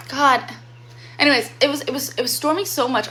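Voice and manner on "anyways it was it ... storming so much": tripping over repeated words; stuttering. Real, not acted. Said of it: "Oh my God, I'm stuttering".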